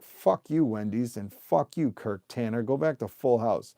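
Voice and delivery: mock angry public telling off a company; fired up. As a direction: voice the fed-up crowd with punch. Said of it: "I just get fired up".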